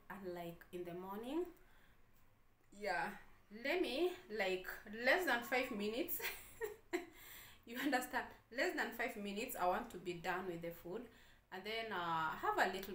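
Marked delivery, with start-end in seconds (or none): 3.6-8.2 excited. Real, not acted. Playful boast about eating fast. 8.5-9.5 excited. Real, not acted. Repeats the boast, still excited.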